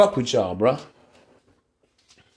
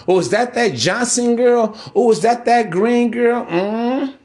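gossipy neighbor; 6 semitones higher than usual. Retold or imitated.

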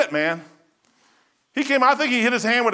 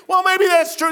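much higher, louder mocking yell; mock shout; 12 semitones higher, 6 dB louder than usual. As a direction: throw it out like a scoffing convert. Mocking a doubter's concession.

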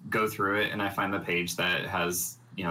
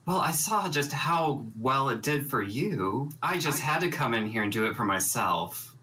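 snarky retort; 5 semitones higher than usual. Acted. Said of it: "Absco says".

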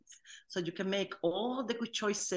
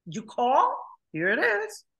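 genie; 3 semitones higher, 3 dB louder than usual. Retold or imitated. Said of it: "como el genie".

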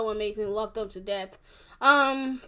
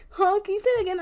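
high and louder, leaning in; 9 semitones higher, 7 dB louder, faster than usual. Retold or imitated. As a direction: ask again in a bright high voice. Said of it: "I was like".

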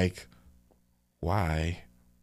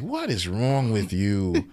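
disappointed parent; much slower than usual. Retold or imitated. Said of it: "I'm like".

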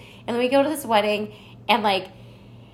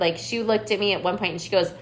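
normal talking voice

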